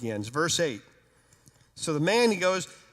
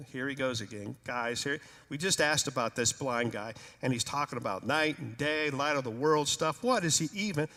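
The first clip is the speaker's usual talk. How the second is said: 1 exasperated disciples; 5 semitones lower, 4 dB quieter than usual. Acted. Disciples grumbling, eye-rolling.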